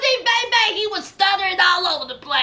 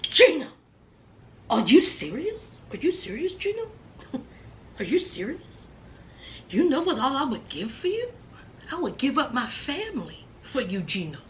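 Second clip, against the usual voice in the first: hurt pleading; 4 semitones lower, 8 dB quieter, faster than usual. Retold or imitated. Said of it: "here's Jasmine".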